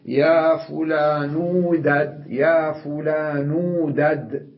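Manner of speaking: very slow, word by word; slow demo of دد heard as waw after the damma; slow demonstration. Shown as a demonstration. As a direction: draw out يا فلان دد for the class. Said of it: "فماذا أقول؟".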